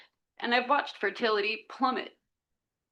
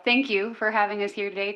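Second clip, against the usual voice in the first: raised volume to be heard; a little louder; 4 dB louder than usual. Real, not acted. Newcomer restarting thanks after not being heard, a little louder. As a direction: project the thanks a bit more firmly. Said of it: "speak a little louder".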